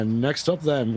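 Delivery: ordinary talk, nothing marked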